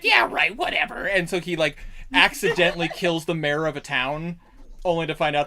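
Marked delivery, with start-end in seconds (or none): 0.0-1.1 high, louder goblin scoff. Acted. Goblins mocking the one who would conquer the world, high scoffing goblin voice. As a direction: brush him off like doubting goblins. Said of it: "The other goblins are like".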